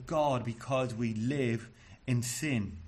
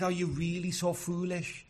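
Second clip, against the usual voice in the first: higher-pitched, incredulous question; exasperated; 5 semitones higher than usual. Acted. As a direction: ask it in mild exasperated disbelief. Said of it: "because he is exasperated".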